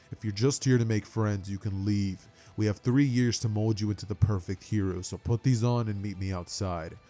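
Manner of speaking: a hint of a low, stern teacher. Stern teacher Aizawa speaks.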